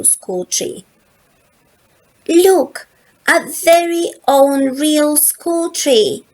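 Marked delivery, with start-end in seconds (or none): 2.3-6.3 loud, high cry of delight; excited Lola. A narrator's reading. Lola showing everyone the school tree, thrilled. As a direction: show off the new tree with joy. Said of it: "says Lola".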